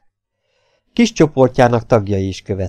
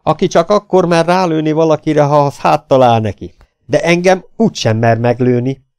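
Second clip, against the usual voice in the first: loud, raised defiant taunt; kiáltás; 6 semitones higher, 5 dB louder than usual. A narrator's reading. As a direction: challenge the coward forcefully. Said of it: "kiáltott a fiatalember". (hangosan, dacosan)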